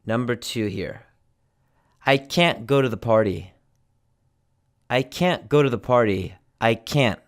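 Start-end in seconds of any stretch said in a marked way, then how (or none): 2.1-7.2 CAN'T cut off in the throat, no released T; stressed CAN'T with a full vowel and a swallowed T; glottal stop. Shown as a demonstration. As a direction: stop short after the "n" in CAN'T. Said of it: "This is a glottal stop".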